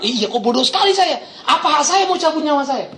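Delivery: rueful laughing realization; laughing self-rebuke. Retold or imitated. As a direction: laugh at his own foolishness. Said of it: "Tapi dia langsung bangun". (menyadari kebodohan sambil tertawa)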